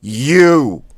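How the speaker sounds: "You" thrust out high and loud; sharp blast. Shown as a demonstration. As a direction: punch "You" out with all your air. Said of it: "You thrust out quickly, sharply".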